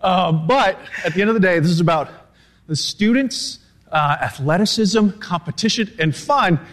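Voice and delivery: winded, still recovering from the run; out of breath. Real, not acted. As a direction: push words out between breaths. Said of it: "wow, I'm really that tired".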